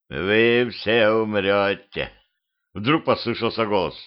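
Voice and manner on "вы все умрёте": slow, doom-laden dead man's voice; corpse voice. Acted. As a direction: drone it like a corpse. Corpse speaks from the cart. (медленный замогильный голос мертвеца)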